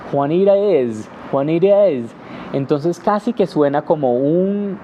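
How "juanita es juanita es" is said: flowing connected Juanita es; fluid English-style. Shown as a demonstration. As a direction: run Juanita es together smoothly. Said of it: "en inglés es como más fluido".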